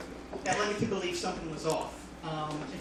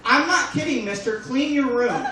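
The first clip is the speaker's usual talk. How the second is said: loud stern order; angry scolding; 4 semitones higher, 7 dB louder than usual. Retold or imitated. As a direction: scold him like a kid. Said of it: "he would get mad at me".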